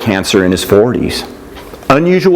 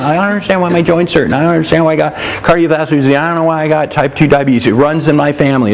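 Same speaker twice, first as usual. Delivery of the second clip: higher, fast, mock-whiny clueless patient; whiny complainer; 4 semitones higher, much faster than usual. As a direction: rattle off excuses in a higher, fast mocking whine. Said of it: "And they don't understand".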